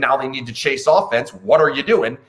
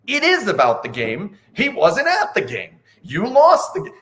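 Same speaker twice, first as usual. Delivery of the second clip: imitated protest climbing higher and higher; retold indignant retort; 7 semitones higher than usual. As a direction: mimic a reporter arguing back, pitch rising. Retold retort from muted reporter.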